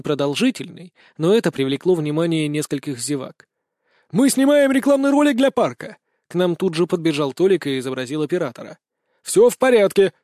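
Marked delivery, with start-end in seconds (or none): 4.1-6.0 high-pitched announcement to bystanders; calling out. Acted. Reassuring onlookers during a fight, calling out high. 9.2-10.1 raised, higher voice to bystanders; calling out. Acted. Reassuring onlookers during a fight, loud calling out.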